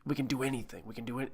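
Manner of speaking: lightly put-on, hushed actor impression; Charlie Hunnam. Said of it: "That's not a very good Charlie Hunnam".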